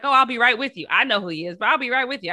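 bright quote. Retold or imitated. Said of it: "I was like".

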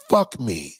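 low, drawn-out fuck me; lightly voiced seductive woman; mock breathy come-on. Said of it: "what do they say to that black man".

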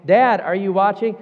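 put-on high, loud, pleading child's voice; whiny kid. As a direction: nag like an impatient little kid. Kid nagging again.

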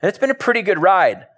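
high-pitched, aggrieved protest; Peter. Acted. Peter protecting what he gave up, protesting. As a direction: plead your own stake, pitch climbing. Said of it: "Peter's like".

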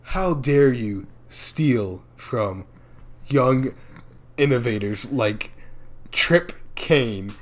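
slow, lightly voiced stern old president; a hint of a scolding old man, slowly. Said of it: "Mickey Rooney goes".

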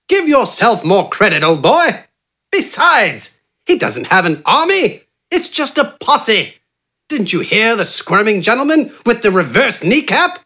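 high, genteel, self-assured bargaining voice; eccentric doctor Wither. A narrator's reading. Wither smoothly bargaining with Gafgarn for his help. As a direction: purr the offer like a smug English gentleman.

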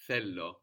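Θέλω stressed on Θέ, falling away after; stress before the ending. Shown as a demonstration. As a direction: hit the first syllable of Θέλω. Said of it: "The stress is there just before the ending".

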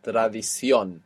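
"Tradición" with the stress on the final -ción; final-syllable stress. Shown as a demonstration. Teacher models an ion word for the class, end-stressed "Tradición". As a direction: lean on the last syllable of "Tradición". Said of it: "all have their accent on the end".

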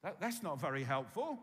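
insistent mock protest; unimpressed listener. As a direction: press the skeptic's objection. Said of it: "You think".

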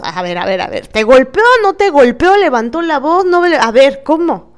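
incredulous questioning. Retold or imitated. Questioning an exaggerated story.

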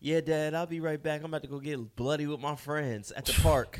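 put-on loud cheeky kid to dad. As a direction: call out like a teen leaving.

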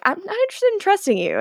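high-pitched, quick retort; imitating a dismissive snub; curt refusal. Retold standoff, Kai refuses Damon.

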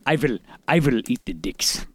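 low, quiet savage brute voice; menacing barbarian threat. Retold or imitated.

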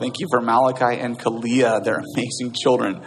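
lightly voiced earnest closing prayer. Pastor praying for the congregation before communion, earnest. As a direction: pray over the room, reflective.

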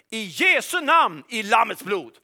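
slow, loud proclamation; a ringing battle cry of faith; calling out. Shown as a demonstration. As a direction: shout it out over the room. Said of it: "Jag brukar ropa ut".

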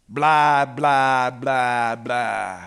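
droning, sinking string of blahs; dismissive blahs. Acted. Preacher skipping the king's speech, droning dismissively. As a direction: let it slide down and trail away.

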